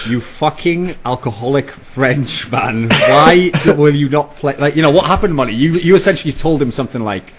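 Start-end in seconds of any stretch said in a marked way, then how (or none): 0.1-4.6 slow mock tweet. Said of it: "he was sort of like".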